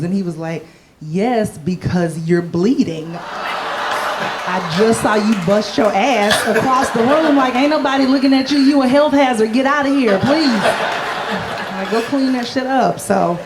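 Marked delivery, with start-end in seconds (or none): 1.0-13.0 lightly voiced guy telling her off; gym dude scolding. Gym guy shooing her off, lightly scolding.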